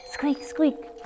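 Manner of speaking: high squeaky squeak squeak; lantern squeak. A narrator's reading. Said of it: "went the lantern".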